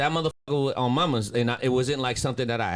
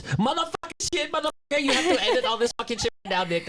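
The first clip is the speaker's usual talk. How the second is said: exaggerated cussing; 11 semitones higher than usual. Cussing clip made for the editor.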